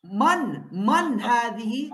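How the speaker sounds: "man hadihi" slow, man leaned on; stress on MAN. Shown as a demonstration. Teacher questioning the student's answer, stressing "man". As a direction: drag out man so the student hears it. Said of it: "tama ba yung tanong ko".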